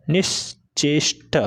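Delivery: निश्चेष्ट stretched out very slowly; slow dictation. Shown as a demonstration. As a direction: spell it out slowly for the class. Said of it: "slow dictation". (निश्चेष्ट को बहुत धीरे खींचकर)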